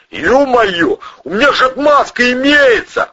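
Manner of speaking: high, loud excited yell; loud shout. Acted. Suspect to colonel, loud excited shout. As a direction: shout out the saving news. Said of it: "крикнул он так громко".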